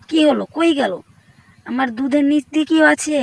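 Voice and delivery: startled alarm. Acted. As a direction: call out as if someone is lurking. Startled, searching for an intruder.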